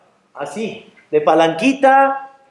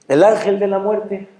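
startled echo. Acted. Man repeating the title the angel just gave, startled. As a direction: echo it back in mild disbelief.

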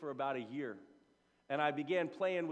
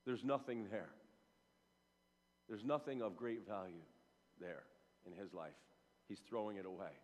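mock dismissive verdict; 7 semitones lower, 9 dB quieter than usual. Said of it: "you would have thought".

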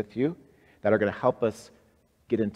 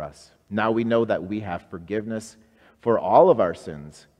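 leading prayer; 3 dB louder than usual. Acted. Leads a prayer.

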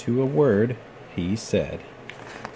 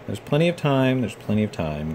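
grumbling. Acted. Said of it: "grumbled the coaches".

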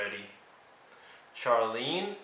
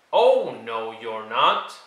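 loud refusal; 7 dB louder than usual. Acted. George refusing entry.

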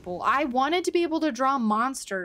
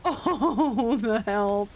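wavering wail; much slower than usual. Real, not acted. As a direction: wail it out in wobbles as you get hit. Startled wail while getting hit in game.

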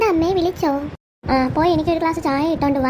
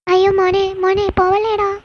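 desperate pleading; 2 semitones higher, 4 dB louder than usual. Acted. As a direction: beg him not to go. Mother begs son as he leaves. (കരഞ്ഞു കെഞ്ചുന്നു)

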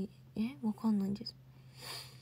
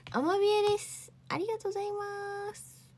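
excited; 9 semitones higher than usual. Real, not acted. Announcing first place, delighted.

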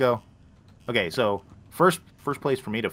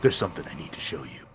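put-on old smoker voice; 5 semitones lower, 6 dB quieter than usual. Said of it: "I apparently sound like an old smoker".

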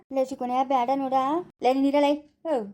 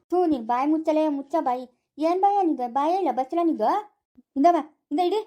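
angry scolding. Acted. Couple quarrelling over swallowed coin.

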